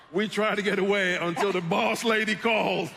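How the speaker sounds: high, loud and laughing; laughing confession. Real, not acted. Actor confessing to the boss who chased him, loud and laughing. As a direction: blurt it out through laughter.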